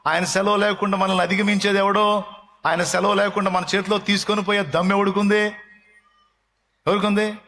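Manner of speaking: high, ringing preacher's cry; fervent pulpit exhortation; full-force preaching. Acted. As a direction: preach it out to the whole hall.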